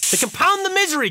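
hammed-up lament over "misery"; mock dramatic. Shown as a demonstration. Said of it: "Fucker misses to compound the misery".

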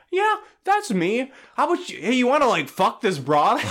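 hammed-up stranger at the bakery; mock goofy guy voice.

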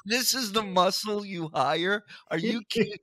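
can't believe who they sent; amazed mocking outburst; incredulous. Real, not acted. Mocking the hired threat.

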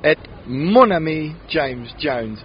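podcast intro in a hammed-up French accent. Real, not acted. Host opening the podcast in a mock French accent. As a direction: put on a jokey French accent. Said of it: "offensive French accent".

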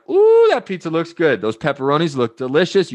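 high, bright-eyed mock craving over the pizza; eager pizza lust. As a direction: ham up drooling over a pizza. Imagined pizza admirer, eager.

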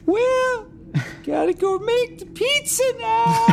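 high, unhinged cheerful villain voice; slow theatrical villain menace. Acted. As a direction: sing it out like a cartoon villain. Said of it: "he sounds like the villain".

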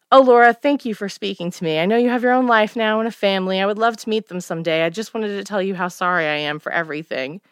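remorseful mother. Acted. Mother voiced in the story.

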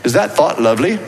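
lightly put-on British accent; a little touch of British, playfully attempted. Shown as a demonstration. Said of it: "throw in a little British accent".

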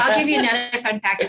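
quick, laughing through the words. Real, not acted. Guest laughing as she offers the host another fun fact. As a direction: chuckle it out, eager to share. Eager to share about Chick-fil-A.

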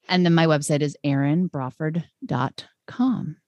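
natural Boston accent. Real, not acted. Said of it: "with your Boston accent".

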